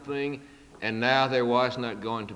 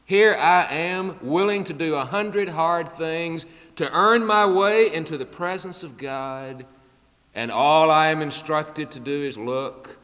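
louder, rising excitement; excited; 4 semitones higher, 5 dB louder than usual. Retold or imitated. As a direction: build up with astonished excitement. Spurgeon's inner exclamation retold.

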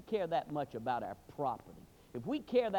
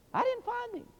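plain. Shown as a demonstration. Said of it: "repeated line".

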